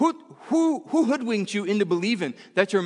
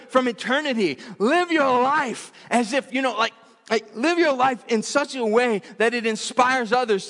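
higher, urgent preacher's build; full-force preaching; 7 semitones higher than usual. Acted. Pastor urging the church to stop being victims, fervent preaching. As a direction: drive it home like a pulpit call.

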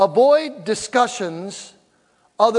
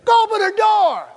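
higher, louder call across the parking lot; imagined shout; 11 semitones higher, 6 dB louder than usual. Retold or imitated. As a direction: yell at the dude to open her door. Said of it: "it makes me wanna go".

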